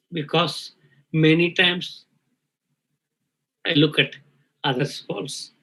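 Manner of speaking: choked up, long pauses between words; fighting back tears, breath catching; emotional, catching breath. Real, not acted. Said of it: "I'm emotional".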